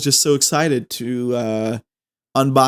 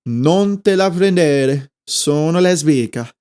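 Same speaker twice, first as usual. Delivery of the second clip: Wiggle style; 2 semitones higher than usual. Shown as a demonstration. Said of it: "the Wiggle style".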